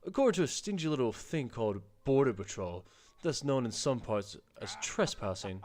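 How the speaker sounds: hearty, boastful captain voice, lightly put on; the proud king of the seas reassuring his new friends. Captain reassuring the lads he will protect them, hearty and boastful.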